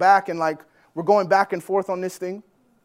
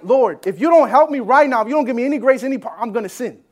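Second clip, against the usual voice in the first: 1 desperate prayer; 3 semitones higher, 6 dB louder than usual. Retold or imitated.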